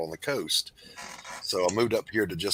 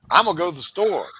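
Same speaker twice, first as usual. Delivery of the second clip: higher, louder mocking voice; mock the phrase as foreign; mock local phrase; 9 semitones higher, 6 dB louder than usual. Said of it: "we damn sure never said".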